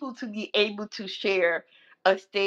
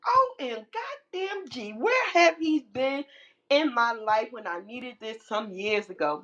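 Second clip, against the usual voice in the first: excited exclamation; 2 semitones higher than usual. Retold or imitated. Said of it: "And I'm like".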